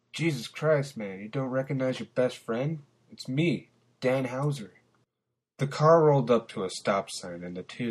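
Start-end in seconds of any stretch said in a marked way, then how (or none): 0.1-4.7 higher, exasperated disbelief; can't believe he's forgotten you; incredulous. Acted. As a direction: friend protesting he's not recognized. Friend incredulous not recognized.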